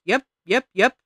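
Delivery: high, loud chirpy little bird; twitchy bird voice. Acted. Junco answers, twitchy bird.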